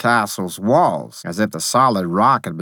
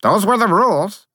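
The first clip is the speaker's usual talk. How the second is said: put-on childlike faerie voice; 12 semitones higher, 4 dB louder than usual. The narrator faerie speaks.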